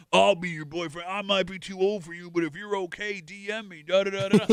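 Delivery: lightly voiced creepy old man; a hint of an eager old suitor. Host imitating old men commenting on videos, lightly creepy old man. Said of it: "creepy seventy-year-old men".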